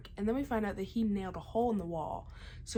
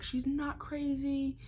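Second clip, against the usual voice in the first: mild mock yell, drawn out and raised in pitch; retold outburst; 6 semitones higher, slower than usual. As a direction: imitate an angry outburst without really shouting. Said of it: "yells. He has this whole outburst".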